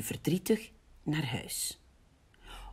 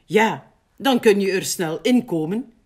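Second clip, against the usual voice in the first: cheerful, slightly raised sheep voice; happy; 4 semitones higher, 7 dB louder than usual. A narrator's reading. Schaap invites Big in, happy and encouraging. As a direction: encourage a friend happily. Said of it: "zegt Schaap blij".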